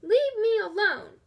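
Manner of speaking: put-on loud, high old woman's yell; cranky old woman yelling. A narrator's reading. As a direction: shout them off the porch. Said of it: "Missus Dodds yelled".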